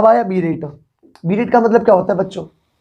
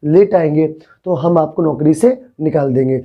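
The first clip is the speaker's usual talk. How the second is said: gentle warning; 4 semitones lower than usual. Retold or imitated. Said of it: "प्यार से बोला कि".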